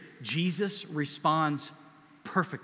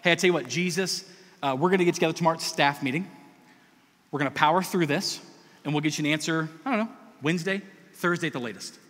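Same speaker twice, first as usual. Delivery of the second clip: mock committee talk; faster than usual. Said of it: "Is there like".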